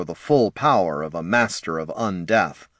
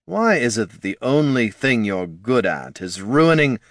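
weary exasperation; 3 semitones higher than usual. Acted. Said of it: "made a sighing noise".

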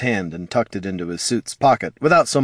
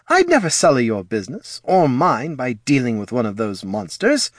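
brisk halfling character; 2 semitones higher than usual. Acted. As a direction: play a halfling in a raised voice. Voices Fitch the halfling.

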